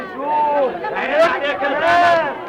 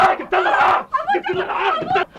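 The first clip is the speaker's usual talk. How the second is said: high shout of shame; raging brother; outraged shout. Acted. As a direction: scream the disgrace at her. Man shames sister.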